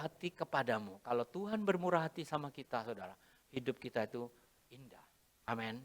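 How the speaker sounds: soft, low blessing voice; tender blessing. Acted. Pastor gently blessing the congregation, soft and low. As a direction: bless them gently and softly.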